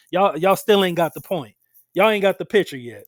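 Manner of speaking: loud, mildly exasperated scolding; imitated exasperation. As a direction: act out a fed-up Lord telling people off. Acting out the Lord's exasperation.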